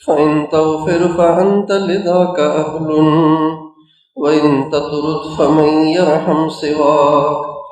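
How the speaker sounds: slow, drawn-out chanted Arabic verse; solemn recitation of verses; poem recitation. Acted. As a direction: recite the prayer-poem with devotion, very slowly.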